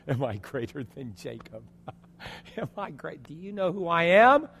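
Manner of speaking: sarcastic. Acted. Preacher imagining Jesus' retort to the woman, sarcastic. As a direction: start under the breath, then lift the last question. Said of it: "if Jesus had sarcasm".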